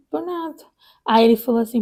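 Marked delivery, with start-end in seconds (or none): 0.1-0.6 much softer, higher retold tearful answer; tearful reply. Crying new mother answering the doctor, much softer and higher. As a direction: hide the tears, barely voiced. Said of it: "eu tava chorando muito".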